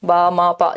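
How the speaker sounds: "बा, मा, पा" as separate, low, level beats; single syllables. Shown as a demonstration. Teacher repeating babbling examples, separate single syllables. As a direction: give "बा, मा, पा" one even syllable at a time. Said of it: "जिसमें एक ही बार syllable लगे".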